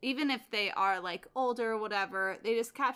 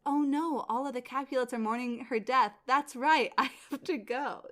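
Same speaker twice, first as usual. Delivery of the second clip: flustered, hurried mock panic; slightly raised, hurried character voice; rushing; 2 semitones higher than usual. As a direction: act like you suddenly must dash off. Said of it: "like, rushing 'cause he's like".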